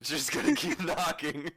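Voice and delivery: amused, laughing through the words; laughing echo. Real, not acted. Game master echoing a player's plan to keep knocking, laughing. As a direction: repeat it while cracking up.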